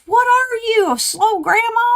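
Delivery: put-on high, teasing little-girl voice; imitating five-year-old. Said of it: "she goes".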